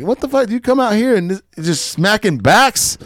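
very high disgusted rant, slowing at the end; hammed-up furious squeal; pissed-off Kevin Hart. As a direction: shriek it high like you can't believe it. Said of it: "he was so pissed at this guy".

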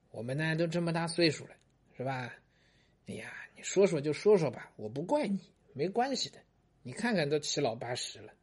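a wife sweet-talking her husband into confessing; sweetly coaxing old wife. Acted.

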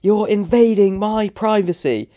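high mimicked call from far away; distant shout. Retelling the approaching woman's complaint, distant voice. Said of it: "so it was distant".

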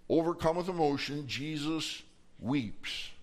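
slow, spaced-out solemn delivery; solemn emphasis. A narrator's reading. Preacher telling that Jesus weeps, solemn and slow. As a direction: let each word hang with feeling.

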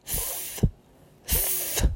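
soft breathy th with the tongue between the teeth; voiceless th demo, tongue between teeth. Shown as a demonstration. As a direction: blow air past the tongue between the teeth. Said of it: "pronunciar da seguinte forma".

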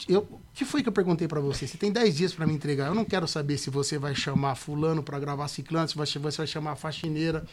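a mildly imitated impatient boss; client's stern manner. Client cutting off producer's excuses, mildly stern. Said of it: "ele falava desse jeito".

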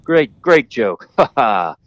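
awkward mock chuckle along; retold polite laughing. Storyteller answering a screaming woman as if joking, chuckling along. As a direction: play along with a laugh, drawing out the words. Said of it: "I think she's joking".

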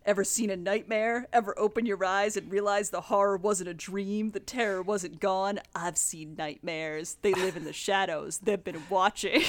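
lightly voiced brooding edgelord; a hint of a spooky boogeyman telling ghost stories; creepy villain monologue. Villain taunting his victim about nightmares, mildly creepy.

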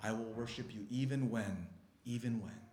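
very soft, low declaration of faith; hushed prayer. Shown as a demonstration. Preacher shows how to speak to God, in hushed low worship. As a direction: pray almost under the breath, reverently.

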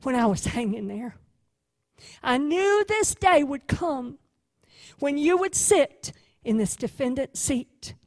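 a gentle attorney comforting his client; hushed, reassuring defense attorney; speaking quietly. Acted. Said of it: "he speaks quietly to her".

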